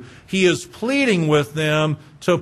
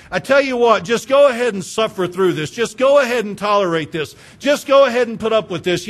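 preaching; 2 semitones higher, 3 dB louder than usual. Real, not acted. Preaching at full force.

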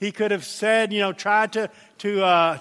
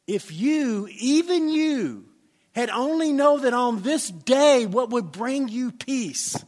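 slow, higher grieving plea; Jesus weeping over Jerusalem, grieving; tearful lament; 4 semitones higher, 4 dB louder, slower than usual. Retold or imitated. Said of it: "as he's crying".

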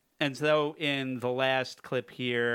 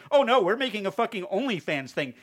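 mocking Bella Thorne; 8 semitones higher, 6 dB louder than usual. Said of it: "Bella Thorne's like".

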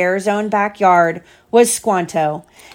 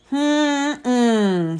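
hum; 3 semitones higher, 4 dB quieter than usual. Acted. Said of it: "said all the bears".

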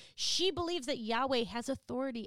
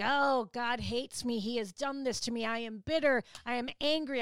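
bitter self-pity; 4 dB louder than usual. Retold or imitated. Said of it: "where she is right now".

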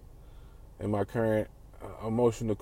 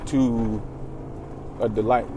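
slow, solemn mock-wise delivery; quoting a man; 2 semitones lower, much slower than usual. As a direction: drawl the saying like a sage. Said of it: "A man said".

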